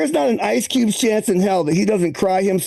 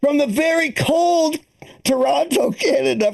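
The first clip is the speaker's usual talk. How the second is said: announcer voice; 3 semitones higher than usual. Acted. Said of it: "repeated announcer take".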